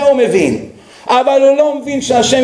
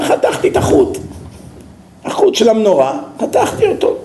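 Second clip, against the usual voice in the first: laughing confession; 2 semitones higher than usual. Acted. Mechanic admits to the driver he cut the wire, laughing. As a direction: giggle it out like a cheeky crook.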